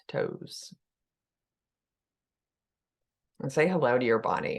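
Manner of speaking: unhurried guiding voice with long pauses; calm meditation leader, letting phrases settle; guided meditation. Acted. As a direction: ease listeners into the body, leaving room to breathe.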